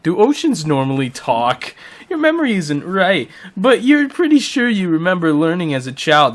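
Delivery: animated narrator read; story narration. Acted. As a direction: narrate with playful puzzlement. Reads the game's narration aloud.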